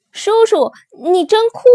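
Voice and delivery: high, loud thrilled cry; overjoyed. A narrator's reading. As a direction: burst out in admiration. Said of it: "高兴极了". (高声兴奋地喊)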